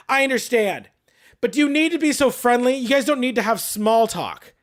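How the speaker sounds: imitating a condescending complainer; mock put-upon objection, pitch lifting midway; irritated customer. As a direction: act out a peeved customer.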